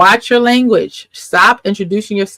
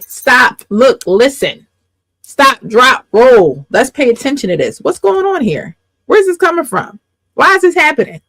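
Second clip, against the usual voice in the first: louder, higher alarm call to stop; urgent self-check; 5 semitones higher, 3 dB louder than usual. Retold or imitated. Speaker voicing the inner alarm of a trigger, urgent. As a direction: sound the alarm at yourself, mock urgent. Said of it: "the trigger is to say".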